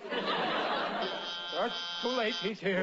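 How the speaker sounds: slow, breathless whisper; frightened whisper. Acted. Riley whispers in fear to the undertaker as the visitor arrives. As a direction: whisper it slowly, frozen with fright. The feared man has arrived.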